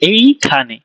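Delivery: slow এইখানে, এই stretched before খানে; slow demonstration. Shown as a demonstration. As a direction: draw out এই, then place খানে. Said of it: "আমরা বলি".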